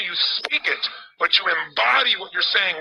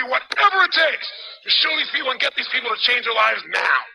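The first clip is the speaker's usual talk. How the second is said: incantation; 4 semitones higher than usual. Retold or imitated. Retelling his car incantation, building higher and more intense. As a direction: pitch rising higher as it builds. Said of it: "I'm screaming at the top of my lungs".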